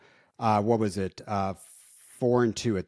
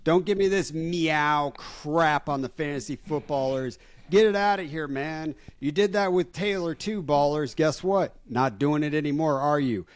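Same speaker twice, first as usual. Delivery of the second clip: worked-up rant; 4 semitones higher than usual. Real, not acted. Calling out the fantasy footballers.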